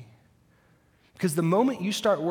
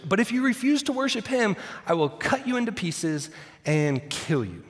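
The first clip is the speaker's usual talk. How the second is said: threat; 6 semitones higher than usual. Acted. King threatens refusers.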